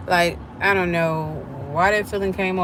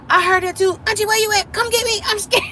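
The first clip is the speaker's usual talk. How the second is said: put-on much higher, pleading voice of a frightened girl; scared niece; 14 semitones higher, 5 dB louder, faster than usual. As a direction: beg your auntie to come get you.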